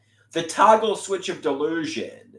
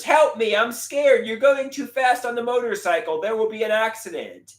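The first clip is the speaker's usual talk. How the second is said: higher, louder, hammed-up panic; mock scared Otto; 7 semitones higher, 3 dB louder than usual. Otto on the speeding motorcycle begs the gothic chick, mock scared. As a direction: play a frightened passenger, pleading. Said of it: "Otto says".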